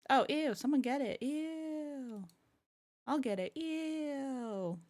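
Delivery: grossed out, laughing loudly; laughing disgust. Real, not acted. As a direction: squeal ew through laughter.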